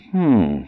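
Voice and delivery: a musing hum; thoughtful hmm. Acted. Robbie mulling it over, a thoughtful hmm. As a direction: hum while weighing it up. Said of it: "Robbie stood there thinking".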